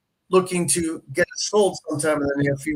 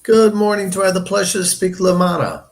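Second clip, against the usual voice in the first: bright phone greeting; 5 semitones higher, 7 dB louder than usual. Acted. Cold call greeting to stranger.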